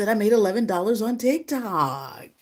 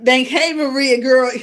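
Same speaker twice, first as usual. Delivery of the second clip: high, loud, gushing hello; light up to greet a friend; excited greeting; 6 semitones higher, 9 dB louder than usual. Real, not acted. To viewer Maria, high loud gushing welcome.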